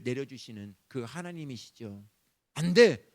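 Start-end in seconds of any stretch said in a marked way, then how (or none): 2.5-3.0 아주 크게 호통치듯; 회초리 들고 꾸짖듯. Retold or imitated. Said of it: "회초리 도는 하나님이 아니에요". (엄한 하나님이 꾸짖는 호통)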